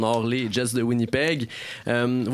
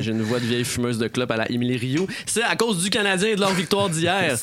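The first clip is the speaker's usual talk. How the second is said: raspy lost voice, real; hoarse, voice half gone; 4 semitones higher than usual. Real, not acted. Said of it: "j'en ai perdu ma voix".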